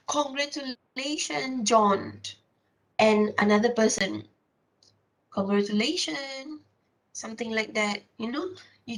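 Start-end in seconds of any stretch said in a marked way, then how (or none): 0.1-2.2 slow, warmly meant congratulations; really mean it, drawn out and falling; sincere congratulations. Shown as a demonstration. Teacher showing a genuinely happy congratulation, sincere. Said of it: "when people congratulate you". 5.3-6.6 mock-bright "Congratulations" with a rising end; sarcastic congratulations. Shown as a demonstration. Teacher showing a sarcastic well-wisher, sneering. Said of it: "you can see that there is sarcasm".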